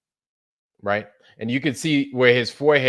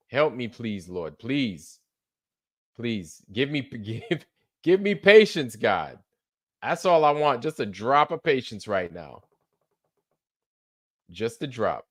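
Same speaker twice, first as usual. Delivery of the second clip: praying for patience through teeth. Real, not acted.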